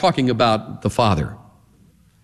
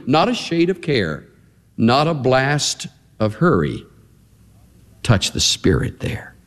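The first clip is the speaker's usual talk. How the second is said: hymn recited softly. Real, not acted. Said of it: "Remember the second stanza?".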